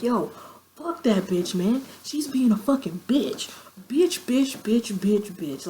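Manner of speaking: re-enacted rant, rattled out at a friend; mock drunken going-off. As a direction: imitate yourself going off about someone. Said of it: "I was just going off".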